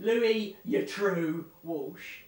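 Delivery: loud, drawn-out impression; Louis Walsh. Doing a talent judge for co-host, loud slow impression. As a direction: belt it out slowly, stretching the middle. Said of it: "There's an impression there".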